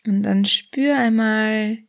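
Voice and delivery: soothing body scan narration; guided meditation. Acted. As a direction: lead the listener gently through a body scan.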